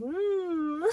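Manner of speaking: soft, drawn-out pleased hum; cosy little moan; contented "mm". Retold or imitated. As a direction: hum as if melting into warmth. Imitates pleasure at warm hands.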